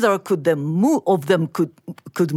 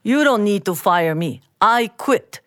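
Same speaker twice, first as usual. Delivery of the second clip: calm. Acted. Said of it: "Mister Lee said calmly".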